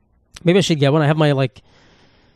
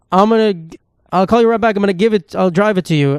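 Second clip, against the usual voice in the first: imitating the driver; 4 semitones higher than usual. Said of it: "And then he's like".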